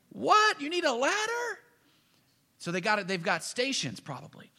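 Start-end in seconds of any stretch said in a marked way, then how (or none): 0.1-1.6 high hammed-up yell, mishearing; loud high call from the scaffold; mock shout. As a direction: yell back puzzled across the distance. Workers shouting up a tower.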